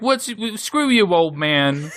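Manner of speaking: high, loud scoffing retort; shouted cartoon sass; mock defiance. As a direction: hurl it at the old barkeep. Couple defying the barkeep.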